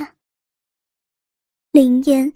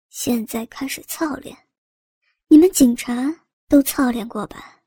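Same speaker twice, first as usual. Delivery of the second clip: cruel; 3 semitones lower than usual. Acted. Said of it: "残忍地说道".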